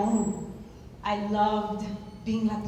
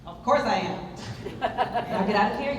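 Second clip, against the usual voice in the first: laughing. Acted. Teasing student after pep talk.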